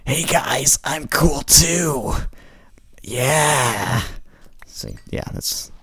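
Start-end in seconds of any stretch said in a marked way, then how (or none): 0.0-4.0 lightly mocked cool-guy voice; trying to sound cool. Host imitating himself trying to sound cool with people. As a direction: play it cool, a bit hammy. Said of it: "when I'm trying to impersonate cool people".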